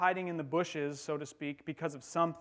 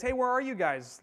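higher, louder call into the garden; 7 semitones higher, 4 dB louder than usual. Acted. God calling to Adam and Eve in the garden, higher call. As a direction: call out like searching for someone.

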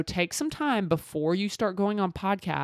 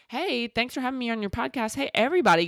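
clueless guest voice; 6 semitones higher, faster than usual. Retold or imitated. Mocking a clueless podcast guest.

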